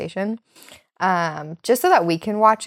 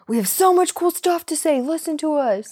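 mock boastful; 8 semitones higher than usual. Joking about being entertaining.

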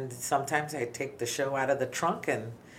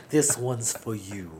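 smooth late-night DJ; slower than usual. Pretend. Slow DJ dedication.

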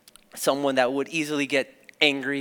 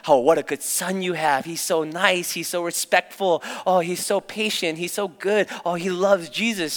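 slightly higher, lightly imitated gushing praise; admiring churchgoers; 4 semitones higher than usual. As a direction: gush to a mother about her son. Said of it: "would tell my mom".

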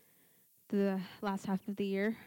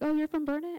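higher-pitched imitation of a surprised stranger; retold pleasant surprise; 7 semitones higher, 4 dB louder than usual. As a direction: imitate someone discovering a hometown connection. Repeating the stranger's surprised question.

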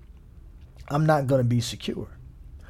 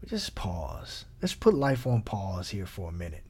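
calm, soft pause; 6 semitones lower, 8 dB quieter than usual. Shown as a demonstration. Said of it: "do this with me".

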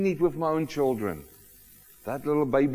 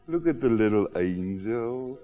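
lower, put-on doting coo; mock cooing; 5 semitones lower than usual. Preacher mimics adults admiring a baby, mock cooing.

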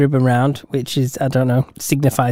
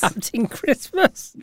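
superhero announcer; 8 semitones higher, 5 dB quieter, much slower than usual. Pretend. Superhero name said grandly.

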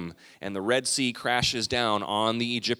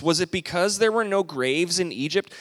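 whiny voice; 5 semitones higher than usual. Retold or imitated. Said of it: "with the whiny voice".

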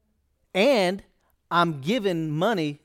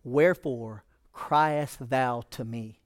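Elizabethan scripture voice; 2 semitones lower, slower than usual. Acted. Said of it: "it says, Elizabethan".

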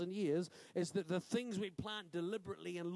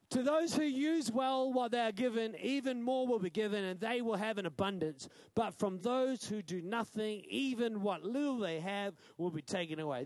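scripture reading; 3 dB louder than usual. Acted. Preacher proclaiming the parable's verdict to the church, loud. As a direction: declaim the verse to the congregation. Reads scripture verse aloud.

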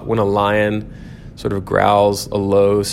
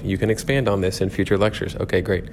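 softer aside to himself; coaching himself; 5 dB quieter than usual. Real, not acted. Lecturer reminding himself about future lectures, self-coaching aside. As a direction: talk yourself through it under the main talk. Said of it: "I'm coaching myself".

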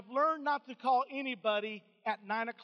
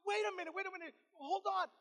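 high, acted disbelief trailing softer; high "oh my God", then softer flustered repeats; retold overwhelmed shock; 5 semitones higher, 3 dB quieter, faster than usual. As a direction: imitate someone stunned on the phone. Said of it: "she just starts bawling and crying".

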